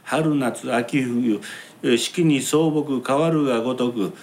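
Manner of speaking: slow, drawn-out chindon-ya patter; kabuki declamation. Shown as a demonstration. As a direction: chant each line slowly like a street barker. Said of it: "とか申しましてって".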